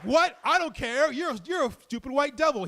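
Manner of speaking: high shouted put-on voice; mock yell. Ranting man shouting back at the storyteller, high yell. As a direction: yell it like a raving stranger.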